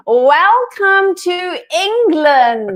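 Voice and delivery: "Welcome to England" slow and high in a hammed-up English accent; teaching English pronunciation; English accent demo. Shown as a demonstration. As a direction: give it a showy English accent. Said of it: "can I teach you English now".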